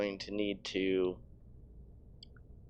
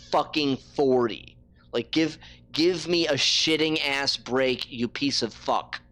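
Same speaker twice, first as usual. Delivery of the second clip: real frustrated outburst, higher at first; exasperated rant; 4 semitones higher, 4 dB louder than usual. Real, not acted. Streamer cursing the failing bitrate, exasperated rant.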